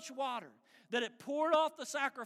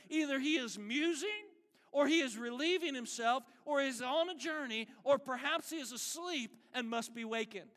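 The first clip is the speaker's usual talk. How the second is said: raised mock speculation about their god; sarcastic; 3 semitones higher than usual. Elijah mocks the prophets' absent god, sarcastically. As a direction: needle them with each excuse. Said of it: "Now that's sarcasm".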